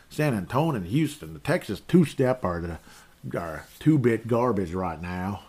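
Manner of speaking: put-on playful mash-up of Texan and Australian accents; Texas mixed with Australian. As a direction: put on a botched Texas-meets-Aussie accent. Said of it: "I don't know which accent I'm even using".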